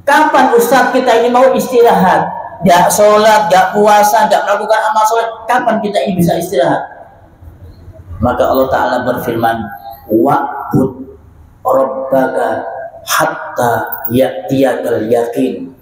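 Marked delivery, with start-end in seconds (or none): 0.0-6.8 impassioned question. Real, not acted. Asking when we may rest. 10.1-15.7 Quran recitation. Real, not acted.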